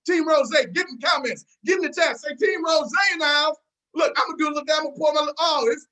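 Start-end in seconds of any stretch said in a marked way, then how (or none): 0.1-3.6 hype call-out. Real, not acted. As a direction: fire up the crowd like a host. Hyping the chat, calling out.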